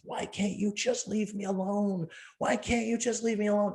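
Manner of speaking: high, wailing sob of a plea; retold tearful wail; crying plea. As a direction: beg through tears to be left alone. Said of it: "And she goes".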